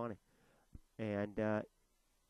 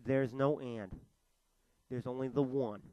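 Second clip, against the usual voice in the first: emphatic; 2 semitones higher, 6 dB louder than usual. Real, not acted. Insisting on only one God.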